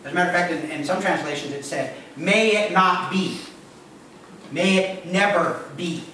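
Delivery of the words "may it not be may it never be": slow, weighted "May it not be", "May it never be"; emphatic. Acted. Preacher giving translations of Paul, slow emphatic "May it never be". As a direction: space out each word of "May it never be" for emphasis. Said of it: "a good way to carry the emphasis".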